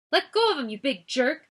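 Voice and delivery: high, loud angry yell. A narrator's reading. Ella yelling at the guard holding Noah. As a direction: defend your friend, yell it. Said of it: "Ella yelled".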